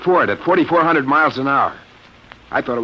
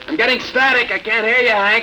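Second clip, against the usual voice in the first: alarmed pilot; 10 semitones higher than usual. Acted. Losing radio contact in trance.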